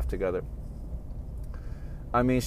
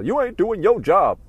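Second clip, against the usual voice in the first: slow, higher mock scold; imitating a boss chewing out a driver; retold yelling boss; 9 semitones higher, 4 dB louder than usual. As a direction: throw the blame back like an angry manager. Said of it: "getting yelled at from management".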